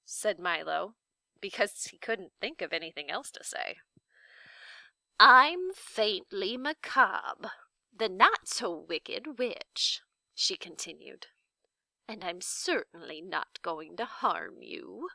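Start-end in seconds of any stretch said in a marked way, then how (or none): 5.2-15.1 put-on slow, gentle old lady voice; lightly voiced grandmotherly witch; Faintly Macabre, kindly witch. The old witch calms frightened Milo, slow and gentle.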